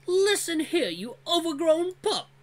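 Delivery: high, slow, furious snarl; angry threat. Acted. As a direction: spit it out in rage. Dran threatens Vul.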